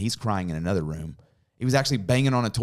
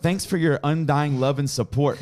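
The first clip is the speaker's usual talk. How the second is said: slow, raised, sarcastic thanks; drawn-out, wryly grateful delivery; mock gratitude; 6 semitones higher, 4 dB louder, slower than usual. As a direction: pile on exaggerated gratitude. Mock reply to his son.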